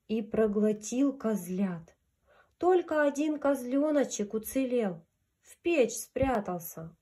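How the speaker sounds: gentle storyteller voice; grandma telling fairy tale. A narrator's reading. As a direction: read it like a bedtime fairy tale. Reads fairy tale to children.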